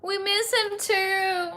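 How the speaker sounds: high, slow, choked-up plea; tearful, voice catching; near tears. Real, not acted. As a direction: hold back tears as you say it. Grieving lost cat, near tears.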